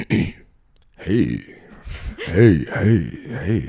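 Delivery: lightly voiced Southern drawl greeting; Southern-accented date. Imitating his date's voice memos, light Southern accent. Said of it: "he sounded like, um".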